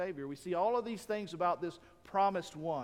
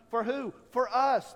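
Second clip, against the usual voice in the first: rising call; 5 semitones higher, 6 dB louder than usual. Real, not acted. Preacher building to a climax.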